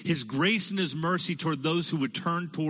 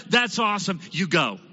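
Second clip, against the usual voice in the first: loud, cheerful go-ahead; delighted approval; 2 semitones higher, 4 dB louder than usual. Acted. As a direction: cheer him on. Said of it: "God said".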